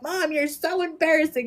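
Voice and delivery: imitating daughter. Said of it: "And she's like".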